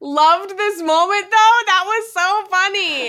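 high, drawn-out delight; delighted gushing. Real, not acted. Podcaster gushing over a favourite funny scene, delighted. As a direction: gush slowly, stretching the key words.

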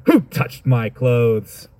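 slow, weighty question like an important man; 1 slow imposing demand. Shown as a demonstration. Jesus as an important man, slow and imposing. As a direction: ask it slowly, as a man of status would. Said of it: "An important person".

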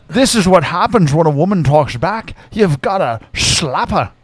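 loose Scottish Connery voice that slips toward Irish; Scottish burr, a bit off; lightly done Scottish-accented Connery. Retold or imitated. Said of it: "That sounds more Irish".

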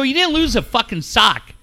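exasperated, high-pitched reproach; heated retold scolding; retold laying-into. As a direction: re-enact chewing out your son. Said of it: "So I lay into him".

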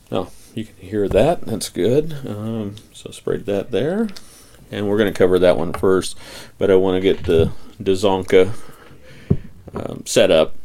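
audible breaths between words; breathing hard into the mic; heavy breathing. Real, not acted. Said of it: "Sorry for the heavy breathing".

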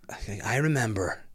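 slightly heavy Irish brogue, reflective; Liam Neeson. Real, not acted. Remembering the video shop, accidental Irish accent. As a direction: reminisce with a hint of an Irish accent. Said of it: "I sound like Liam Neeson there".

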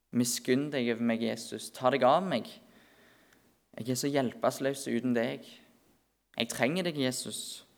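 soft, intimate plea, dropping on the name; quiet pleading prayer. Acted. Preacher models a helpless person praying to Jesus, quiet pleading. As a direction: pray it gently, without calling out.

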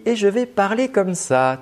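sing-song lift on "parler comme ça", pitched high; "parler comme ça" spoken high and tuneful; melodic speech. Shown as a demonstration. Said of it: "j'utilise une mélodie".

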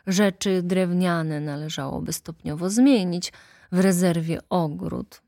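smooth, obliging attorney; courtly lawyer. Acted. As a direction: congratulate him with eager politeness. Lawyer appraises the house.

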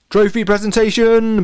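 bellowed announcement, high and drawn out; Latham Lashington. A narrator's reading. Latham announces the trophy presentation to everyone, bellowing. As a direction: bellow it slowly to the whole field. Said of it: "bellowed Latham Lashington".

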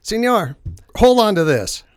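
high, loud shouted command; imitated rescue holler; retold lifeguard order. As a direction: shout an order to a struggling swimmer.

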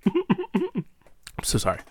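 quiet, slow apology; soft apology. Real, not acted. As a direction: say sorry softly and slowly. Apologising after eating.

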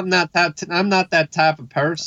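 exaggerated Southern hick accent. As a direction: play her as a country hick. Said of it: "a little on the hick side".

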